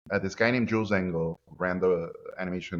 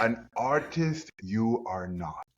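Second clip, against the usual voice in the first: Yoda-like teacher; much slower than usual. Retold or imitated. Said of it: "He talked like Yoda".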